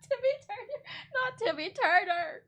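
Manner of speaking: words squeezed out high and slow through laughter; laughing. Real, not acted. Vlogger laughing as she takes back the name, high and slow. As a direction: laugh while you take the name back.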